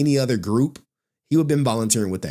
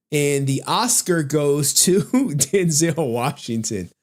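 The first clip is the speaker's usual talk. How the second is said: slow, drawn-out award announcement; a hint of an Oscar presenter, laughing; mock awards announcer; 3 semitones higher, slower than usual. Mocking the actor with a fake award announcement.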